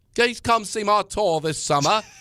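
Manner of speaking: put-on very high-pitched English accent. Imitating a recorded phone message: a singer's English accent. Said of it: "she did it with an English accent".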